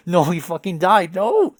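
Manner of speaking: high, loud cry of protest; loud, dramatic denial; distraught shout. Acted. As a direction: shout it out, rising on the last word. Acted distress at a death.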